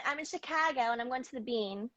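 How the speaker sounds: Chicago accent with big A's; demonstrated Midwestern accent. Shown as a demonstration. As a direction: talk like a Chicagoan. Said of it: "then you go to Midwest".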